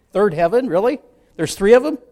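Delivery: baffled disbelief. Retold or imitated. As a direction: play the confused listener who can't believe it.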